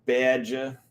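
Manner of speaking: a tentative Wisconsin accent on "Badger"; Wisconsin accent try. Shown as a demonstration. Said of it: "how to say badger with a Wisconsin accent".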